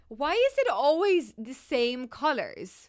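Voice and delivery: drawn-out frustrated whine; exasperated whine. Real, not acted. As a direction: complain about the same colors again. Frustrated at random colors.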